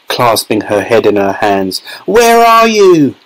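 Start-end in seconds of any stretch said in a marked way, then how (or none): 2.0-3.1 high, drawn-out mother's cry; scream. A narrator's reading. Mother searching for her vanished son, high drawn-out scream. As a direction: stretch the call out slowly, pitched high. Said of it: "screamed Missus Teavee".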